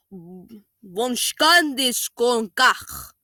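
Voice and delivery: very slow, drawn-out fake foreign words; mock gibberish. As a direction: mimic nonsense that sounds foreign. Mocking fake language gibberish.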